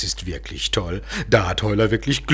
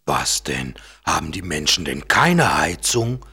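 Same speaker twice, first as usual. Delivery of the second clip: rufend. Acted. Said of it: "ruft der kleine Eisbär".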